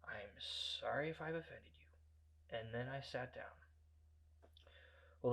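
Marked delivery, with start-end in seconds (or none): 0.0-2.6 soft, slow and polite; hushed, deferential apology; quiet, simple politeness. Retold or imitated. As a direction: back down softly, with pauses. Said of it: "I simply said".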